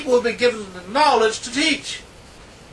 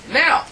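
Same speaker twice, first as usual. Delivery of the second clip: Now lifted high and louder, set apart; stress on Now; 8 semitones higher, 4 dB louder than usual. Shown as a demonstration. Preacher stressing the word Now to the congregation. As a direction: lean hard on the word Now. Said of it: "That is a very important adverb".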